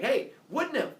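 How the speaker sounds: high-pitched call; hailing. Acted. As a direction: call out to catch their attention. Apollo hails another nymph.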